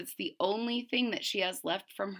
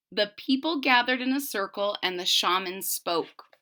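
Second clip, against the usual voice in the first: story narration. A narrator's reading. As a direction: read it like a legend to a class. Teacher reads story aloud.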